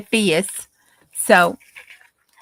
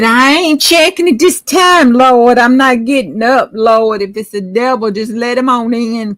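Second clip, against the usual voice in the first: scared refusal; 3 semitones higher, 7 dB louder than usual. Acted. Nancy frightened, refusing to get up.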